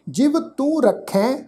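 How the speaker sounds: ਰਖੈ with a nasalized final ਖੈ; nasal tone. Shown as a demonstration. Teacher demonstrates nasal ending of ਰਖੈ. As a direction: end ਰਖੈ through the nose, slowly. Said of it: "ਰਖੈ ਸ਼ਬਦ ਨਾਸਕੀ tone ਚ".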